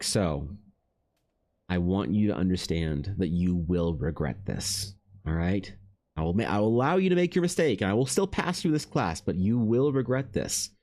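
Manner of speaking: mild mock stern warning. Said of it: "she was being very dramatic".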